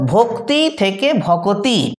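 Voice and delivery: ভক্তি then ভকতি, both slow and deliberate; careful teaching contrast; slow example. Shown as a demonstration. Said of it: "যেমন উদাহরণ দেখো".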